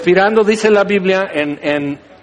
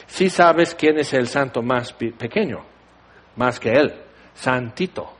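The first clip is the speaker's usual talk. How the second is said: stifled laughing joke; 5 semitones lower, 4 dB quieter than usual. Real, not acted. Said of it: "no me pude resistir".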